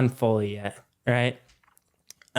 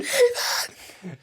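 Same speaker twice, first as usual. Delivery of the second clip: very high, held-back mock scream; imitated scream. Driver screams at passenger as car veers off, high mock scream. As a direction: imitate your friend screaming, pitched way up. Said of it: "He's screaming".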